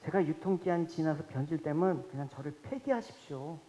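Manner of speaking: preacher prays to be discarded, soft and humble; quiet prayer. Retold or imitated. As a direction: murmur it humbly to God. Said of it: "기도를 했어요".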